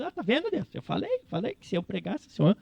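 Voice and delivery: high, petulant told-you-so whine; whiny Jonas. Retold or imitated. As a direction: sulk like a spoiled child. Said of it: "Daí vai o Jonas ficar desenterrando".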